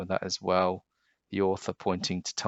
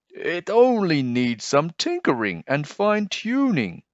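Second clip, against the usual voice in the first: a hint of a call, higher up; hollered; 10 semitones higher, 6 dB louder than usual. Leon calling up to the boy on the roof, mild holler. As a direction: call it across the roof, lightly. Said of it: "Leon hollered".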